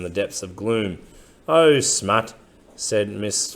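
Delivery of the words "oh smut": excited exclamation. Acted. Miss Fanny exclaims.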